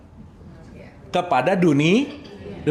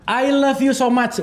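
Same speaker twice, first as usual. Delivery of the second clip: slow and higher, heartfelt; an overdone lover's "I love you so much"; gushing declaration; 5 semitones higher, slower than usual. Shown as a demonstration. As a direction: lean into the love, drawing it out. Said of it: "Di aku tiga yang lumayan rada oke".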